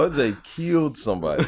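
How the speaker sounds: loud and incredulous with laughter; laughing protest. Real, not acted. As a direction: insist it through the laughter. Joking argument over O J verdict.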